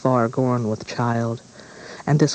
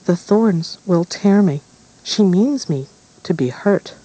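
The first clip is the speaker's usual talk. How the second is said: put-on frightened girl complaining; 5 semitones higher, 4 dB louder than usual. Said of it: "She whispered to her father".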